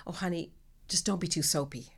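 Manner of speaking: soft, put-on sweet advice; quietly condescending, as if helpful; patronizing casting director. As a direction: imitate a casting director's hushed little warning. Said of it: "she says to me".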